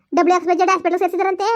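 put-on old woman telling the hospital name; granny voice. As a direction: grandmother passing on the news. Grandmother tells the hospital name.

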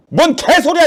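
high, sharp burst of outrage; angry retort. Acted. Rejecting a friend's demand on the phone, outraged. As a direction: fire back in disbelief, pitch jumping up.

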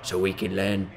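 low voice fading to a slow whisper; solemn butler wisdom trailing off into a hush; mock butler moral, whispered at the end; Alfred. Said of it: "He's like".

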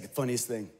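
a touch of a relaxed Howie; lightly voiced Howie recounting the desert shoot; Howie telling the story. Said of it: "He's like".

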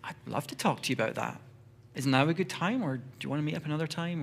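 gentle invitation. Pretend. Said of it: "just gently like".

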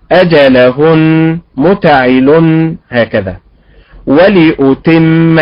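أجلهن and ولأتم very slow, stressed syllables held; slow stress demo. Shown as a demonstration. Teacher repeating the words slowly for students.

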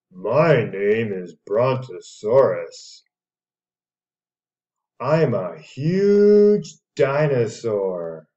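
a friendly dinosaur introducing itself, loud and slow; big slow storybook dinosaur voice; lightly voiced dinosaur. Parent voicing Brontosaurus for a small child, loud and slow.

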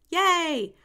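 high, loud yay; joyful storybook whoop; children's cheer. A narrator's reading. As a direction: cheer like a delighted class.

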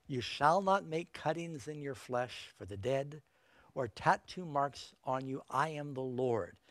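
slow, measured Bible reading; solemn scripture reading. Acted. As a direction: read the verse slowly, with weight. Reads Leviticus scripture aloud.

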